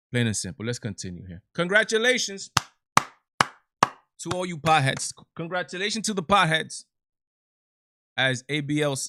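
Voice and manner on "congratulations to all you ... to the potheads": raised, announcer-like mock cheer; mock congratulations. Host sarcastically congratulates potheads on the House vote, mock celebration. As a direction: hail them with a higher, sarcastic cheer.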